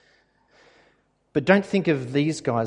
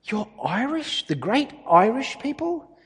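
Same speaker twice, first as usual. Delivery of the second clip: eager opener; 7 semitones higher than usual. Pretend. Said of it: "Why didn't I say to Lisa".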